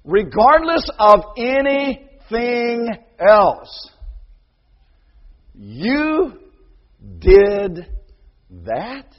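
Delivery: put-on slow, pointed questioning of a guilty child; a hint of a stern father asking; stern parent. Preacher acting the stern parent.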